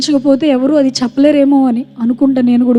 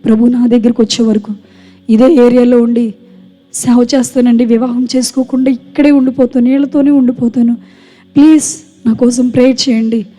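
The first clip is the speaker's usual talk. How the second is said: public vow. Retold or imitated. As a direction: proclaim it boldly so everyone hears. Vow to mourners at funeral.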